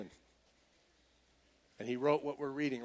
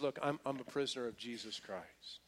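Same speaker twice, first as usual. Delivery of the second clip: calm acceptance; 4 semitones lower, 9 dB quieter than usual. Acted. Paul's calm answer after mock complaint.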